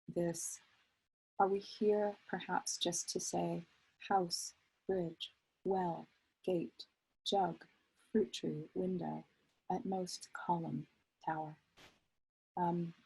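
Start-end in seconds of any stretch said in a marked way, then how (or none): 1.4-11.6 measured list, each noun set apart; poem reading. Acted. Poet quotes elegy lines behind the book's title, measured recital. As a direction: recite it word by word, pausing between items.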